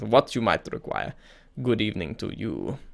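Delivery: put-on creepy emissary, lightly French-accented. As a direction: give a hint of French to a shady go-between. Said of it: "I don't know why I made him French".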